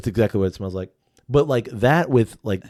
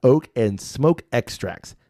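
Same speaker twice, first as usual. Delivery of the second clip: label read aloud; 2 semitones higher than usual. Shown as a demonstration. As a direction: read the bottle copy like a pompous ad. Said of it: "I'm gonna read you some bottle words".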